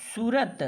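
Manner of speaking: सूरत clipped with a short उ, as सुरत; सूरत with a brief उ sound; short u demo. Shown as a demonstration. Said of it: "छोटा ऊ की मात्रा का प्रयोग करते तो ये होता".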